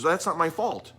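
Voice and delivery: retold high-pitched self-defence; indignant protest. Retold owner protesting his innocence.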